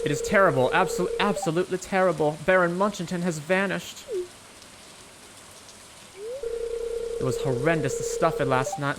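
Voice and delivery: put-on a weak, admittedly shaky Southern Belle accent. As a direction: lightly voice a fretting Southern Belle. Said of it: "It is supposed to be a Southern Belle accent, and I'm not doing it too well".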